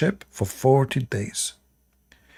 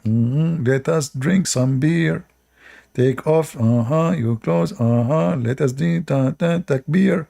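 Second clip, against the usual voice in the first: male bird courting; 2 semitones higher than usual. Retold or imitated. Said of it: "heard a male bird saying to his female".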